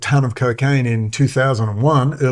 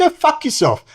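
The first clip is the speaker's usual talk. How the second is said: furious retort. Retold or imitated. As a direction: yell it at the guard. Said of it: "And I said".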